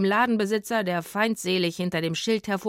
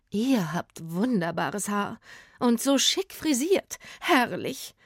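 admiring gush; 3 semitones higher, slower than usual. Acted. Hairdresser admiring hair.

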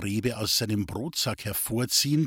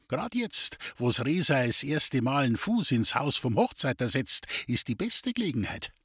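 put-on lightly raised voice of a sly old gypsy; a hint of a wheedling gypsy fortune-teller; 3 semitones higher than usual. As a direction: tease him with the rival's luck. The gypsy Duli explains the curse.

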